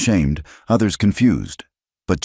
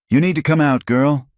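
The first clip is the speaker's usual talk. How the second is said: calling out; 11 semitones higher, 4 dB louder than usual. A narrator's reading. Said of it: "another voice called".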